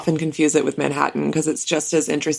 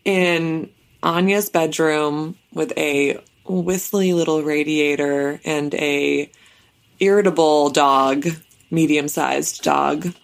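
reporter voice. Pretend. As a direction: read it like a field correspondent. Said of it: "this is my official, uh, reporter voice".

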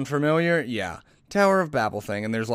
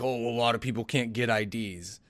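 patronizing tone; 2 semitones lower, 4 dB quieter than usual. Retold or imitated. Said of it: "the patronizing tone to be like".

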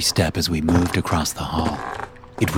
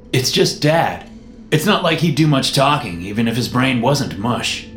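put-on dismissive higher young man; 6 semitones higher than usual. Jerry voiced.

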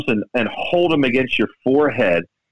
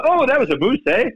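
a hint of a Canadian accent, higher pitch; imitating a Canadian; 12 semitones higher than usual. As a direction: quote the Canadian playing partner with a Canadian accent, pitched up. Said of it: "that's a Canadian way of saying".

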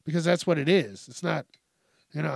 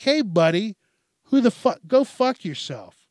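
loud, high-pitched angry comeback; acted snippy outburst; 5 semitones higher, 6 dB louder than usual. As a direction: snap it out, mock outraged. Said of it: "they start getting snippy with you".

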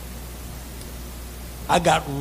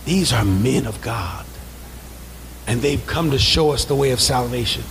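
put-on girl's words; 8 semitones lower than usual. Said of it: "Hear what she said".

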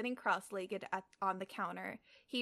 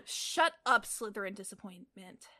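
snapped. Acted. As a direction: snap a retort to shut someone up. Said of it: "Teddy snapped".

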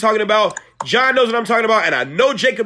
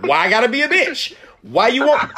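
indignant shout; 4 semitones higher than usual. Retold or imitated. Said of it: "I'm like".

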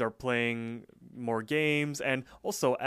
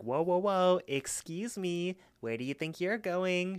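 high put-on voice of a fussy front desk lady, much higher; imitating the counter lady blocking the door, high and officious; annoying counter lady; 7 semitones higher than usual. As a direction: squeak out the lady's officious challenge. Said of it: "that's how she sounds".

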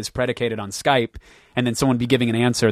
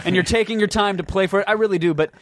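mock polite letdown; 6 semitones higher than usual. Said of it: "I'm like".

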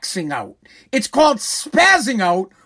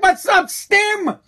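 mock yell; 7 semitones higher, much slower than usual. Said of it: "I'm like".

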